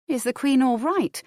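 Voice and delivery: mildly anxious lady's question. A narrator's reading. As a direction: ask it with sudden worry. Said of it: "asked anxiously".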